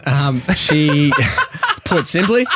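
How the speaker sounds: real laugh breaking through. Real, not acted. Laughing as he describes his girlfriend. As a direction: laugh bubbling up between words.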